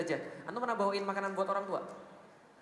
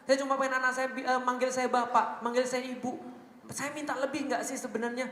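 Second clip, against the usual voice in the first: imitating crying parent; 4 semitones higher than usual. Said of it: "Dia nangis, dia bilang apa?".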